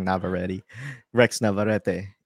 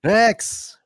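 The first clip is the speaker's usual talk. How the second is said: high, loud yelling mom; mom yelling down the aisle; 13 semitones higher, 8 dB louder than usual. Retold or imitated. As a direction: call across the store like a mom. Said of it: "your mom down the aisle going".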